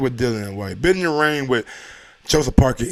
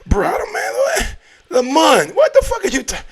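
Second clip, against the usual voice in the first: shrill disbelieving outburst, much higher; incredulous shout; 13 semitones higher, 4 dB louder than usual. Real, not acted. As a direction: yell in shocked disbelief. Outraged at a super chat.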